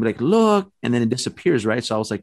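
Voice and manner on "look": high, contained exclamation; mock scream. Boy spots the thing by the stairway, mock scream. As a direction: imitate a sudden high-pitched alert. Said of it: "I didn't want to scream".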